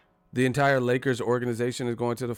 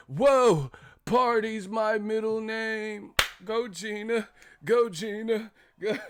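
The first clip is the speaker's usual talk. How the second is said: put-on high-pitched white-boy cheering; Bob from marketing; 11 semitones higher, slower than usual. Bob cheering Gina on, high put-on voice. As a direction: chant it high, in a goofy put-on voice. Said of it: "Bob from marketing".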